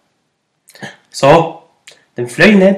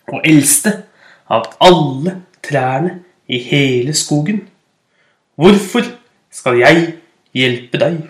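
put-on proud old oak; 2 semitones lower, slower than usual.

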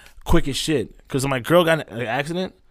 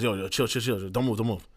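hushed calming; 2 semitones lower, 5 dB quieter than usual. Retold or imitated. Boy calms him in neck brace.

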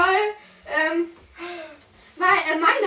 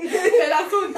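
laughing; slower than usual. Real, not acted. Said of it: "das bin ich".

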